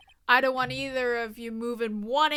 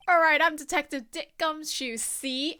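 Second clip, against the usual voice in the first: a gruff, louder tough-cop read; Detective Gumshoe voice; 2 semitones higher, 5 dB louder than usual. Acted. Player reading the detective's intro line aloud, as a tough cop. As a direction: play the hard-boiled detective, see?. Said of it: "he never speaks like this again".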